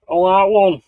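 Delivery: high, loud comic-character catchphrase; Little Britain impression. Streamer joking that he can't choose, Little Britain impression. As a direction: imitate a sketch-show character demanding his pick. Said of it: "I'm like the guy off Little Britain".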